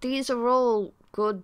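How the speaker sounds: high, slow mock sobbing; hammed-up crying. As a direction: wail it out in exaggerated tears. Dad tearing up over advice.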